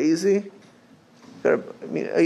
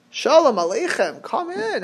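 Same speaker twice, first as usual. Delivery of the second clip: welcoming; 8 semitones higher than usual. Acted. Playing host welcoming arriving guests.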